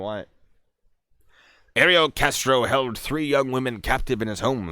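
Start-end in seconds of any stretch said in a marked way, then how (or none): 1.7-4.7 punchy true-crime reading voice; theatrical article read, drawing out the key names; dramatic story narration. Acted. Reads article.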